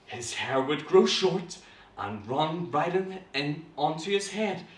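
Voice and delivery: put-on slow, dramatic reading to children; measured, suspenseful storytelling; story narration. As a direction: draw out each step of the transformation. Reads story aloud.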